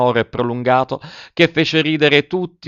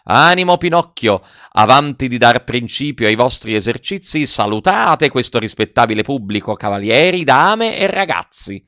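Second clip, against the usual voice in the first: pompous ringmaster. Acted. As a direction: proclaim it to the crowd like a showy circus director. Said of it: "gli disse". (il direttore del circo annuncia solenne al pubblico)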